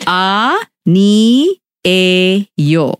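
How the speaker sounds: 아, 니, 에, 요 said one syllable at a time; 아 ... 니 ... 에 ... 요 with clear pauses; staccato. Shown as a demonstration.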